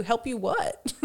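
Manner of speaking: the same question said through a laugh; amused mock bafflement; laughing repeat. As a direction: repeat it giggling at the absurdity.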